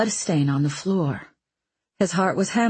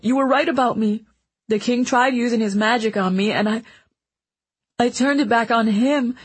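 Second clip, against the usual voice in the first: put-on high, urgent, crying boy; tearful pleading; 5 semitones higher, 3 dB louder than usual. Boy pleads with dying mentor through tears, higher and louder. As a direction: pour it all out, begging her to stay.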